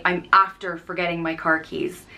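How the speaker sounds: "I'm after forgetting my car keys" said plainly as the Irish form; Irish phrasing. Shown as a demonstration. Teacher showing the Irish way, plain relaxed delivery. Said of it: "you'd say".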